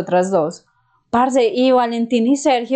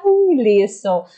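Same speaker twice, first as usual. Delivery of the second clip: resigned okay; much slower than usual. Retold or imitated. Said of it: "Y nosotros como".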